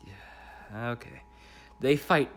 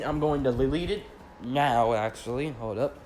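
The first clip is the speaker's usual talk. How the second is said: blocked nose, sniffling; stuffy nose. Real, not acted. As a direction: talk through a stuffed-up nose. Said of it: "Sorry about the sniffling".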